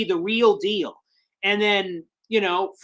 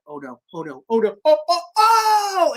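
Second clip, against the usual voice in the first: retold edge-of-seat suspense; 5 semitones higher, 4 dB louder than usual. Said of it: "I went to the edge of my seat".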